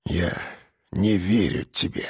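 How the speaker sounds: put-on low, soft old man's voice; еле слышно, низко и тихо; barely audible. A narrator's reading. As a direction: say it so quietly he can hardly hear. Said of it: "еле слышно сказал".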